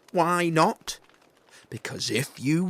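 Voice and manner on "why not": put-on high, loud child voice, rising; child's question again. Gruffalo's child pressing her dad again. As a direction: press him again like a curious kid.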